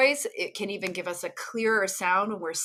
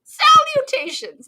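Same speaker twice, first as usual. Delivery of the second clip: put-on old-timey formal; 8 dB louder, slower than usual. Mock old-timey telegraph greeting.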